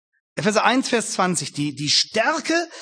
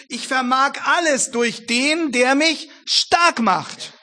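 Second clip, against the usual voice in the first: slow, weighty reading of Paul; solemn scripture quote; 5 semitones higher, 4 dB louder, slower than usual. Shown as a demonstration. Preacher quotes Paul to the congregation, slow and solemn. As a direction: let each word land slowly. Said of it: "sagt Paulus".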